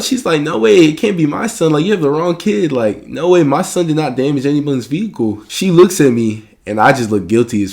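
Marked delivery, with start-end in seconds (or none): 0.4-5.4 high, louder mom in flat-out denial; mock maternal outrage, pitched way up; freaking-out mom. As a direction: imitate a mother protesting frantically. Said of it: "She starts freaking out".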